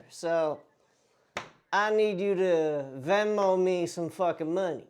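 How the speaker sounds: country bumpkin debt collector, lightly put on; country bumpkin accent. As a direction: press for payment in a mock country accent. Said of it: "The, the country bumpkin".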